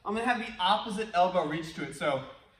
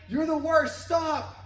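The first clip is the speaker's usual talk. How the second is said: much higher, louder yell; frustrated shout; 9 semitones higher, 5 dB louder, slower than usual. Retold or imitated. The kid, frustrated, yells at the echo. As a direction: yell it out fed up. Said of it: "Getting frustrated".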